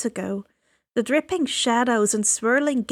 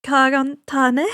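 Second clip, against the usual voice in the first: sheepish; 2 semitones higher, 5 dB louder than usual. Acted. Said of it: "I said sheepishly".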